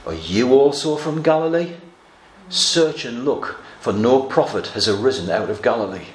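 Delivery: mild mock sarcasm, slowing on "search and look"; sarcastic response. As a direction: sneer it back with a touch of scorn. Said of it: "the sarcastic response".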